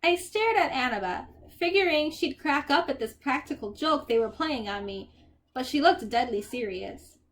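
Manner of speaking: expressive, unhurried storybook reading; story narration. A narrator's reading. Percy describes Grover and the poodle, story narration. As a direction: paint the scene line by line.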